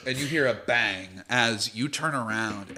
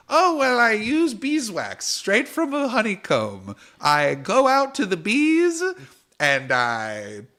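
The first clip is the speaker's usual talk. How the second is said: higher, boastful goblin brag; proud goblin; 5 semitones higher, 4 dB louder than usual. Acted. Goblin bragging to Honeycrisp about beeswax, lightly raised voice. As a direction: show off the mustache secret.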